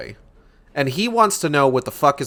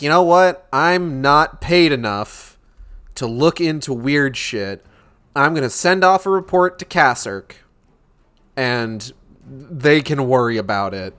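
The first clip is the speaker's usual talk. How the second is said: lazy Field shrug. Retold or imitated. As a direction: drag it out like a clock-watcher. Voicing Field shrugging off work.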